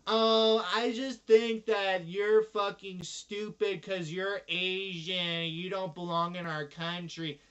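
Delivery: loud, slow sneer; mock their bigotry; sneering racist relative. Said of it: "relatives quoted".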